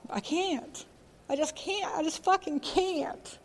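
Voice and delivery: high, soft voice close to tears; teary. Real, not acted. Recalling losses in recovery, tearfully despairing. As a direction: choke the words out through real tears. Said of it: "it does make me very teary".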